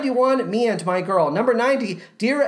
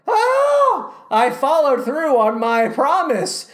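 high, loud drawn-out cry settling down; triumphant relief; 5 semitones higher, 4 dB louder, slower than usual. Acted. Host finishing a marathon list, high triumphant outburst. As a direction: burst out high, as if the feat is done.

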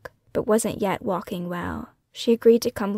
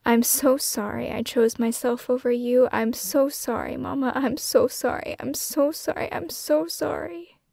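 building from choked apology to high, breaking sobs; pleading with her dead mother, climbing higher each time; crying apology; 4 semitones higher than usual. Acted. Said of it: "I cry".

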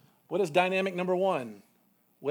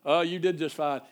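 mock nasal mentor; 5 dB louder than usual. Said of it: "nasally sort of talk like this".

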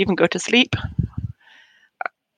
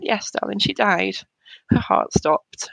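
gentle answer; slower than usual. Retold or imitated. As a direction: ease the hard truth gently to him. Mother answers son about sister's death.

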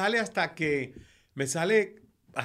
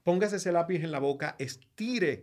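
diction teacher drilling; 3 semitones higher, 4 dB louder than usual. Retold or imitated. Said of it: "empezó a decirme".

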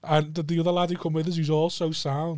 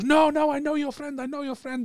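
imitating attendant; 9 semitones higher than usual. Retelling attendant's reply.

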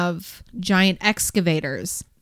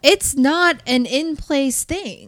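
excited; 7 semitones higher, 4 dB louder, slower than usual. Real, not acted. Describing the huge sluice.

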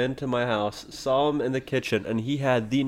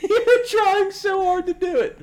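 high laughing teasing; slower than usual. Real, not acted. Friend teasing another's yawn attempt, laughing. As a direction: tease him through laughter.

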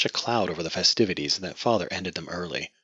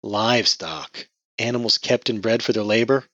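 exasperated; 4 semitones higher, 5 dB louder than usual. Acted. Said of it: "exasperated sigh".

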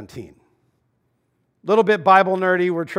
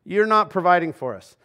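complaining Israelites; 5 semitones higher than usual. Retold or imitated. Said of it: "where the people go".

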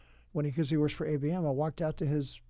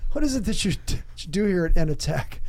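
baffled mock questioning; 5 dB louder, faster than usual. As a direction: ask it like a lost visitor. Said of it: "And I went".

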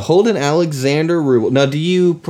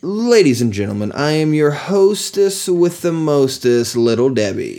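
announcer voice; 4 semitones higher than usual. Acted. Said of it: "you gotta do it like an announcer".

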